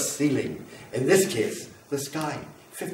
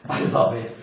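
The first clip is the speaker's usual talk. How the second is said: breathy whispered confession; 3 semitones lower than usual. Acted. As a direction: whisper it like a secret. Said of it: "And I love it".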